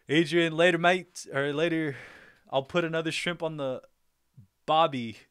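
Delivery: hammed-up Aussie farewell, Australian accent; attempted Australian accent. Streamer bidding Sydney viewer goodbye in mock Australian accent. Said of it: "I wish I could say it in your accent".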